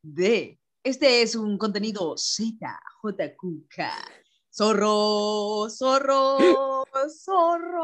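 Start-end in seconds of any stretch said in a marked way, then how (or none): 4.5-7.8 rising playful repeats. Pretend.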